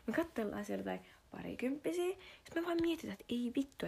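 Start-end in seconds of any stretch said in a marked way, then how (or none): 0.1-2.2 confiding whisper to the viewer. Real, not acted. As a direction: lean in and whisper it. Confiding gossip.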